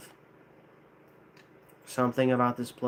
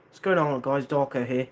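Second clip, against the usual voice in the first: light attempt at a British accent; lightly voiced British greeting; the speaker's British voice. Trying out how the speaker sounds to viewers, lightly British. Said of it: "like, sounds like".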